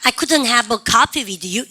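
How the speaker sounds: couldn't stressed in a slow sentence; slow drill. Shown as a demonstration. Teacher drilling the class, slow and clear. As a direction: lean on "couldn't" and go slowly. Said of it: "시작".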